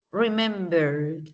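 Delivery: remembered very slow, pitch going down; slow, drawn-out remembered, sliding down; descending word stress. Shown as a demonstration. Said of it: "Va haciendo como un descenso también".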